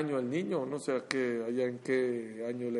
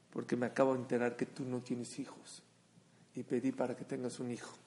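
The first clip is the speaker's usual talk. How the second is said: tender confession; 3 semitones lower, 6 dB quieter than usual. Retold or imitated. Child's tender confession to childless man.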